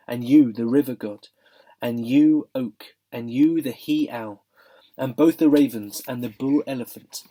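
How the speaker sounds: grave, measured lion king. Acted. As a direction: speak as a solemn lion. Aslan addresses creatures.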